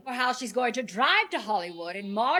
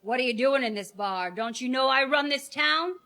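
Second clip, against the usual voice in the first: put-on old film tough guy; 3 semitones higher than usual. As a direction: growl it like a movie boss. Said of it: "make old films".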